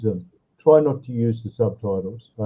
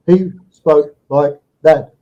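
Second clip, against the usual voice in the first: choppy, slow, louder words imitating the student; jerky speech; 5 dB louder, slower than usual. Teacher imitating a student's jerky English, choppy and halting. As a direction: chop each word apart like a stiff learner. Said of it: "It was very jerky".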